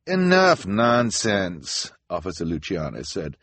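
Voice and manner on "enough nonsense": slow, raised-pitch officer's rebuke; stern dismissal. A narrator's reading. Officer silences the children's explanation, stern dismissal. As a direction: cut them off with authority.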